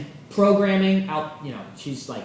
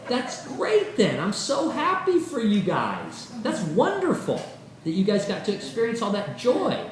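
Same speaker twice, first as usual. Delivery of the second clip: enlightened reply; 4 semitones higher than usual. Retold or imitated. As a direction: play it as the calm, glowing enlightened partner. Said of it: "an enlightened person would go".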